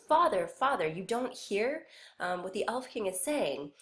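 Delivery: put-on a child calling out in fear; scared son. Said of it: "He's still scared".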